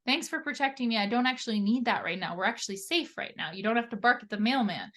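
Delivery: kindly thanking a worried body; sweet thanks. Retold or imitated. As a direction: soothe the body like a pet. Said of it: "If we're like".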